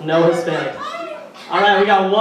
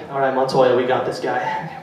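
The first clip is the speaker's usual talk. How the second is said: mock police officer, lower; gruff cop; 6 semitones lower than usual. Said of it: "they'd be like".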